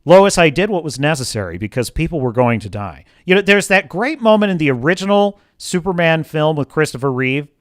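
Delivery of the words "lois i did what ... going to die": calm explanation. Retold or imitated. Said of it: "would all have simply explained".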